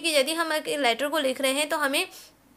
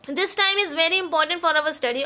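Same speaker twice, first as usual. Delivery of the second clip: slow dictation; much slower than usual. Shown as a demonstration. Dictating letter line.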